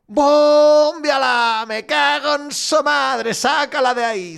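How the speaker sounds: furious hammed-up supporters' chant; crowd yelling. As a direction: roar it like fans in the stand. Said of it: "grite la grada".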